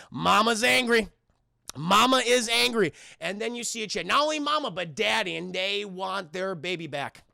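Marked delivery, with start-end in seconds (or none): 0.1-2.9 ominous warning. Retold or imitated. Acted dread of approaching mother dinosaur.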